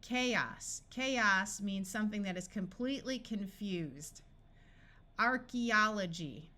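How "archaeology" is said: "Archaeology" sounded out slowly: ar-kee-ol-o-gy; teacher breaking "Archaeology" into clear syllables; slow demo. Shown as a demonstration. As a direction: say "Archaeology" slowly so every part is heard. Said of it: "A E says E in this word".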